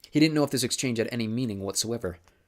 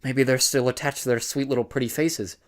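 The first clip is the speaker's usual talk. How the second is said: creepy crank; 4 semitones higher, 4 dB louder than usual. A narrator's reading. Crank men taunting.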